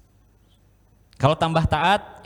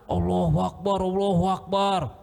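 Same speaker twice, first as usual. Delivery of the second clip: mock panicked shout; 3 semitones higher than usual. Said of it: "Semuanya teriak".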